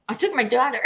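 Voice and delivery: high laugh breaking in. Real, not acted. Confessing she dragged her daughter along, laughing. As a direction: giggle through the line.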